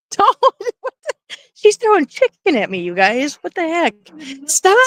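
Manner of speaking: high, laughing startled protests; surprised squeals of protest. Real, not acted. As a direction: yelp at being pelted with chicken. Woman throwing chicken at her.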